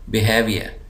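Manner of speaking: बिहेवियर joined up, हे given weight; stress on HAVE. Shown as a demonstration. Teacher repeating for students, stress on हे in बिहेवियर. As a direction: lean on हे in बिहेवियर, then fall. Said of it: "ज़ोर दे रहा हूँ".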